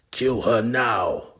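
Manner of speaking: villain roaring the kill order; loud slow order. Acted. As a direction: bark it out slowly. Ordering the killing.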